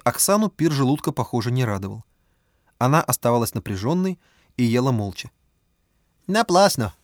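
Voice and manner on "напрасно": put-on higher accented Bao voice; Chinese accent Russian. A narrator's reading. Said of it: "подвёл итог Бао".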